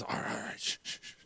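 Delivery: unvoiced, hurried whisper; hushed shushing under the breath; acted-out hushing. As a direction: whisper to shush a laughing friend. Acts out hushing his laughing friend.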